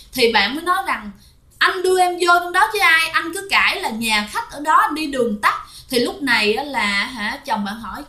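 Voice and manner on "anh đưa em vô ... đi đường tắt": higher-pitched retort to the husband; retold indignant comeback; accusing wife. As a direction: throw the blame back, voice raised in pitch. Wife blames husband in retold argument.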